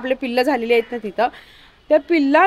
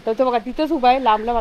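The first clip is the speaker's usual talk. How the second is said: normal talking voice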